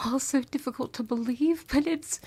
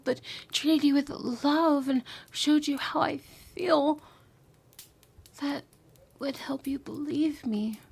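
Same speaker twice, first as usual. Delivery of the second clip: tender whisper; 2 semitones higher than usual. Acted. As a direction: whisper it like a lover's confession.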